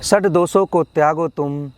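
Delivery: measured, rhyming poetry delivery; motivational poem recitation. Acted. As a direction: recite to rouse the listener, falling on each refrain.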